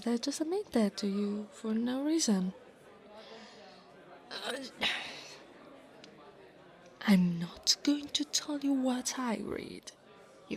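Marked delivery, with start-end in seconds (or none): 4.6-5.2 soft, defeated exhale; weary little huff; exasperated sigh. Acted. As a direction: sigh at your own slip. Just let a secret slip.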